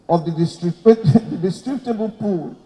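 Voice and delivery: breaking into a real laugh. Real, not acted. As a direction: try to read on through a chuckle. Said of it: "I'm laughing".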